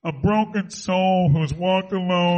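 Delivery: speaking with the nose held shut; blocked-nose nasal Pidge impression; Pidge pinched-nose voice. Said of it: "I have to plug my nose to be Pidge".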